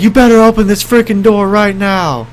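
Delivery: high-pitched mock-furious demand; imitated angry grandma. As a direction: play an irate grandma ordering through a door. Grandma demanding through the door.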